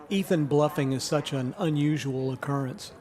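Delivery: dry sarcasm; deadpan ironic understatement; sarcastic. Real, not acted. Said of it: "Is that sarcasm?".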